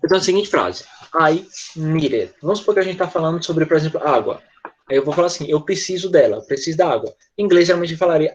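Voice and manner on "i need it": slow "I need it", D tapped like an R; American "I need it" with flapped D. Shown as a demonstration. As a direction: link "need it" as "nee-rit". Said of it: "transformar esse D em som de R".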